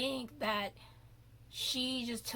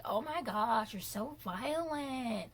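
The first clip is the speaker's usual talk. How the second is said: higher, mock-innocent scolding voice; mocking catty models; 4 semitones higher than usual. Mimicking the other models scolding her. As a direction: sneer it like prissy housemates. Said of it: "some other models on the show that were just like".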